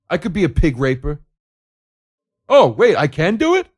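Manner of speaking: the TV viewer excitedly volunteering to be on the show, shouting. Retold or imitated. Loud, eager excitement. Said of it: "The audience that sits there and goes".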